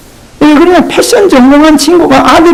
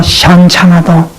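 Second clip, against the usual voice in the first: 시원찮아도 in Gyeongsang dialect; 4 semitones lower than usual. Shown as a demonstration. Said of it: "경상도 말로".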